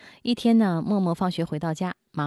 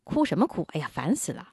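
annoyed parent. Retold or imitated. Parent fed up with a crying child, irritated. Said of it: "反感".

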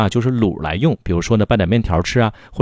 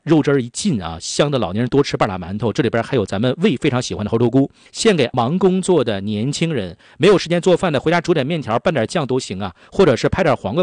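polished, emphatic sales pitch with lively pitch swings; punchy radio commercial delivery; radio ad read; 3 semitones higher than usual. Acted. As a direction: sell it like a radio shopping spot. Sales pitch resumes after number.

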